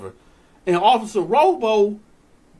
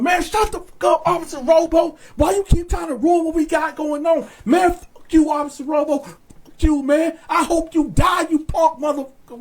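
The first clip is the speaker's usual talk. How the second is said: mock inmate yelling; 5 semitones higher, faster than usual. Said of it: "we got the yelling on him".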